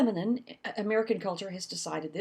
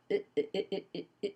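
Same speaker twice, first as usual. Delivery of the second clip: monotone eh; 6 dB quieter, much faster than usual. Shown as a demonstration. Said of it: "their pitches are like".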